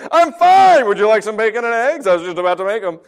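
hammed-up fake calm parent; mock cheerful. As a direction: fake breeziness dripping with sarcasm. Sarcastic parent feigning calm.

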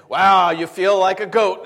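loud, drawn-out mock wonder; amazed old father. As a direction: stretch out the wow in loud amazement. Acting out blind Isaac touching him.

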